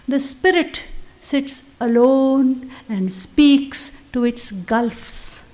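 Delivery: slow, measured reading of the verse; poem recital. Acted. Teacher reciting lines of Savitri, slow and measured. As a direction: let each line breathe, unhurried and reverent. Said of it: "Other lines".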